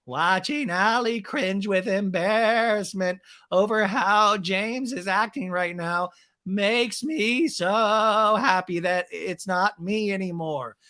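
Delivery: very slow, put-on drawling voice; smug Raquel voice. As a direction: savor each word smugly. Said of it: "Raquel in a talking head".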